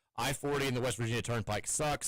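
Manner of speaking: ordinary talk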